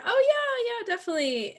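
high, eager agreement, retold; enthusiastic mom. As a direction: imitate a mom's keen confirmation. Retold mom recognizing her daughter's friend.

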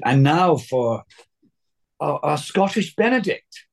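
high, drawn-out announcer's build; grand stage introduction. Retold or imitated. Master class actress introduces the student performer, grand announcement. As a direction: announce the act, slowly rising in pitch.

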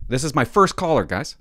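loud, high, pumped-up host intro; hyped announcer voice. Real, not acted. Host hyping his first caller to viewers, loud and high. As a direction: sell it like big news to the fans. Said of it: "Why am I talking like that?".

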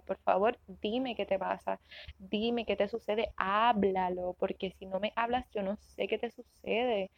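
a mother gently asking her daughter to talk; patient mother. Retold or imitated. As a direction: calmly coax the child to use words. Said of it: "Yo le digo a ella".

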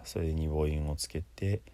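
ordinary delivery

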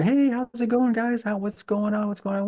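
high, eager hello; excited high-pitched greeting to old friends; cheerful greeting. Retold or imitated. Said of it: "I immediately went over there".

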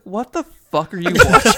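laughing disbelief. Retold or imitated. Wife catching the end of the movie, asking through laughter. Wife reacting to a horror film.

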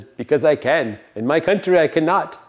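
lightly imitated New Guinean accent; a hint of New Guinean accent, retold. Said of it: "in his accent".

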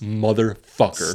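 slow, drawn-out seething curse; mock fuming. Imitating friend who saw himself pointed at, understated fuming. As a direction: stretch the curse with understated fury. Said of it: "he was fucking fuming".

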